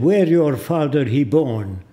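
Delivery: put-on slow broken English with an Arab accent; imitating Arab accent. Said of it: "I'm imitating his voice".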